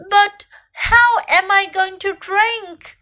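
lightly voiced, high upset elephant; a touch of a plaintive, high cry; storybook elephant wailing mildly; crying little elephant. A narrator's reading. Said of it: "cried little elephant".

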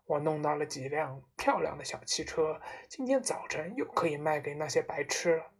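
a hint of a cocky car dealer; self-satisfied father. Father boasts to his son about car sales, self-satisfied.

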